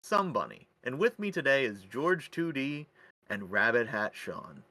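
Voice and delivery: measured, swinging announcer delivery; podcast host intro. Acted. Host welcoming listeners to Infinite Nonsense in an announcer style. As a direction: present it like a show host.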